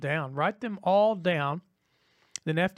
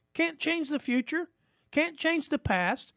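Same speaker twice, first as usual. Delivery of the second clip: emphatic; 10 semitones higher, slower than usual. Acted. Preacher punching a point.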